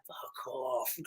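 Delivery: high-pitched, softened wild-man cry; mock savage. Retelling a dad refusing to climb down, hammed-up savage cry. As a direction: imitate a savage defying officials, voice pitched right up. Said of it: "he's a fucking savage".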